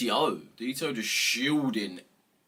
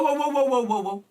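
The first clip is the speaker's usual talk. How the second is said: shouted, higher whoas to stop her; loud, higher exasperated whoa at mum; 12 semitones higher, 8 dB louder than usual. Real, not acted. Yelling at mum about door.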